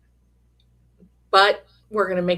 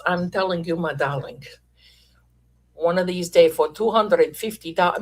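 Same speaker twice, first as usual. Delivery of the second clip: mystic fortune teller, whispered darling; a playful hint of a fortune teller; gypsy fortune teller voice. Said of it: "The gypsy fortune teller voice".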